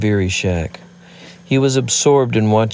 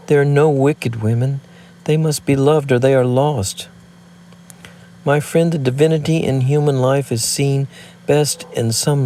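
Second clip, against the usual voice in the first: higher, earnest woman's plea; impassioned woman's voice; 4 semitones higher than usual. Acted. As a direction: speak it as a fervent confession. Woman pleads her confession.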